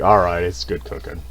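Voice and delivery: low, giving-in mock reply; mock resigned surrender. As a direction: concede defeat, dropping the pitch. Retells giving in after long speech.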